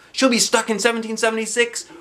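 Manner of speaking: high, drawn-out wailing forever. Acted. Andrea fearing her friend is lost, wailing. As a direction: let the last word break into a wail. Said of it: "Andrea started crying".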